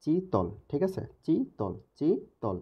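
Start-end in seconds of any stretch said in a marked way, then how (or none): 0.0-0.5 "চিতল" as a long, high চি, then তল dropping; split into syllables. Shown as a demonstration. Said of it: "এখানে অক্ষর কয়টা চিন্তা করেন". 1.2-2.6 "চিতল" as a long, high চি, then তল dropping; split into syllables. Shown as a demonstration. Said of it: "এখানে অক্ষর কয়টা চিন্তা করেন".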